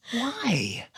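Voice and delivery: high, drawn-out disbelieving question; dad impression. Son plays his baffled dad, high drawn-out incredulous question. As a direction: ask it high and stretched. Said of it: "he looks at me and goes".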